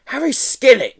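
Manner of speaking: loud, high bawl across the room. Acted. Teacher summoning a pupil, loud high bawl. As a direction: bawl the name out. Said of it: "she bawled".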